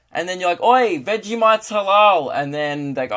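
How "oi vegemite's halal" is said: high, loud, drawn-out Aussie shout-over; stretched, higher mock holler; acted calling out. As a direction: call it out to a mate, hammed up. Calls out to the bigot.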